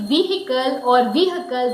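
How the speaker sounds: "vehicle" as VEE-hi-kul, then VEE-huh-kul; long e and a sounded h in each "vehicle"; other mispronunciations. Shown as a demonstration. Teacher lists wrong variants, "vehicle" with audible h. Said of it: "many people also say it".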